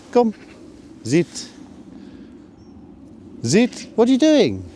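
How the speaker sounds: very high, loud call; exasperated yell at the dog; loud high shout. Real, not acted.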